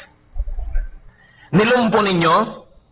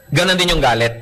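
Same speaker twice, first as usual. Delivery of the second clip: ordinary talk, nothing marked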